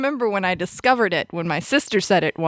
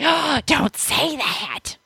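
slow, higher drawn-out scold; mom scolding; 5 semitones higher, much slower than usual. Retold or imitated. Recalling mom's reaction, a higher slow scolding mom. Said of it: "my mom was like".

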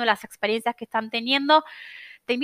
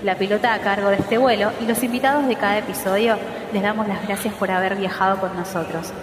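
airport announcement. Pretend. Flight announcement outro with music.

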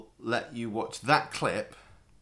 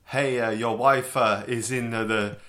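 mock Italian accent; 5 dB louder than usual. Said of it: "I really would have gone in for the".

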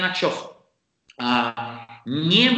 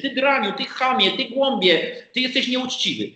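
mock angry shout; 6 semitones higher than usual. Imitating a man who storms in and yells insults. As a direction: hurl the insults like an angry intruder. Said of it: "ktoś wchodzi i krzyczy".

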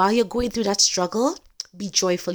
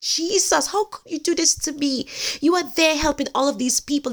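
crying out; 5 semitones higher than usual. Retold or imitated. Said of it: "Peter cried out".

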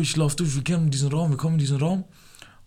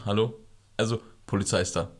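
low, soft hushed answer; hushed phone voice; 6 semitones lower, 7 dB quieter than usual. Retold or imitated. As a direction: murmur it into the phone. Quiet phone call, police arrive. (leise ins Telefon)

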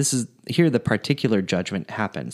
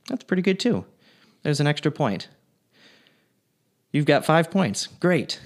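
higher, mock-impressed gatekeeper; playful Saint Peter; 5 semitones higher than usual. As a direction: tease him like a smug Saint Peter. Saint Peter voiced in a joke.

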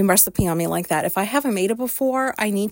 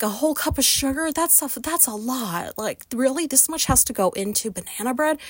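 retold disbelief; 3 semitones higher, 3 dB quieter than usual. Retold shock at amount of sugar.

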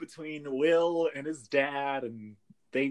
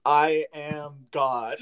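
slow god voice; 3 dB louder, much slower than usual. Retold or imitated.

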